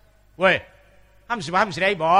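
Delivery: lightly voiced earnest Isan dialect; a hint of a serious northeastern farmer; สำเนียงอีสานจริงจัง; Isan accent. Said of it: "คนอีสาน... พูดมันก็ต้องจริงจัง".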